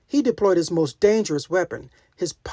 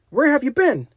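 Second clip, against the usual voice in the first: worried; 8 semitones higher, 5 dB louder than usual. Acted. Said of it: "looking worried".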